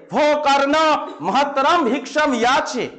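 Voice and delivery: slow, solemn call from behind the curtain; offstage voice. Shown as a demonstration. Teacher again voices Indra calling Karna from offstage, slow and solemn. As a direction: summon Karna as an unseen voice. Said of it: "কর্ণকে ডেকে বলছেন".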